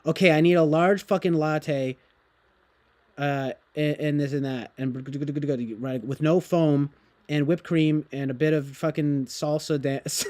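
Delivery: lightly voiced pushy yuppie ordering coffee; mock edgy yuppie at the counter; edgy yuppie customer. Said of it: "edgy, like, at, you know, yuppie".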